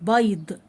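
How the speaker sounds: "بيض" drawn out with a distinct y glide; clear ya sound. Shown as a demonstration. Teacher repeating the example word, carefully enunciated. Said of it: "نطقت الياء اهو".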